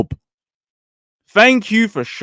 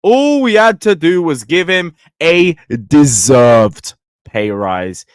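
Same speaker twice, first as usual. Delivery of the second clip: "deserved" leaned on, louder; stress on deserved; 3 dB louder than usual. Shown as a demonstration. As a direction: hit the word "deserved" hard. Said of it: "Emphasis on the word deserved".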